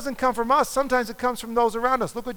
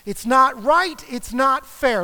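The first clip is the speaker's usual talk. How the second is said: a touch louder, protesting; mild indignant protest; 5 dB louder, slower than usual. Pretend. Griever voicing anger at the loss: mild indignant protest. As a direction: push back like something unjust happened. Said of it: "you might actually get angry".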